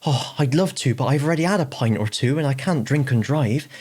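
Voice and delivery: high, apologetic mock grovel; scary pub guy turned meek. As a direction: squeak out an overeager apology. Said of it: "he goes".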